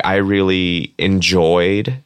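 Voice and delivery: slow, deliberate weight on "enjoyed"; "enjoyed" given slow emphasis; stress on ENJOYED. Real, not acted. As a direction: lean on the word "enjoyed", drawing it out. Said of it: "emphasis on the word".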